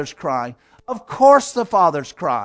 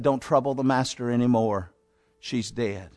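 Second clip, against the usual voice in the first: hushed bad news; 7 semitones lower, 6 dB quieter than usual. Servants bring news of death.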